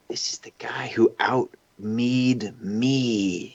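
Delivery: slow whispered thought. Retold or imitated. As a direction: whisper it slowly to yourself. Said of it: "So I went in kind of thinking".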